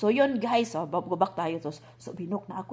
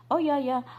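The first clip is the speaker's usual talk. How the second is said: imitating the agent; 6 semitones higher, 6 dB louder than usual. Agent voiced on phone call.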